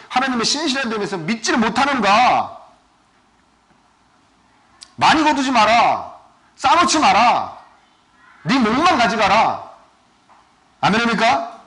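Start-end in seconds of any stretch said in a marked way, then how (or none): 5.0-9.7 emphatic command. Acted. God's commands, preached emphatically.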